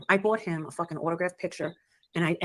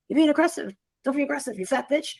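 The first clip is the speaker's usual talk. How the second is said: higher-pitched imitation of a scolding mother; retold scolding; 8 semitones higher than usual. Mother cursing at a nurse in hospital, retold scolding. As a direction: act out mom's complaint, raised in pitch.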